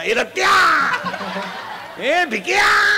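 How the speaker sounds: put-on hollering at drunk friends by nickname; imitated drunk shout; drunken calling out. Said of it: "एकमेकाला बापाच्या नावानं हाका मारायचा".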